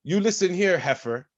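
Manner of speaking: reenacted blowup at the general manager, heated; mock angry rant. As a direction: snap at the manager, replaying the fight. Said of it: "that's when I snapped".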